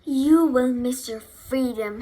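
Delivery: loud, emphatic opening; mild honk. A narrator's reading. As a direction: honk out a warning, leaning on the first word. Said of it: "honked the goose".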